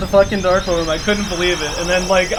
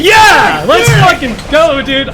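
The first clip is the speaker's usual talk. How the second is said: much higher, loud triumphant yell; victory shout; 8 semitones higher, 8 dB louder, slower than usual. Real, not acted. Streamer yelling in triumph as his run finishes. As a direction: let it burst out, slow and loud, pure triumph.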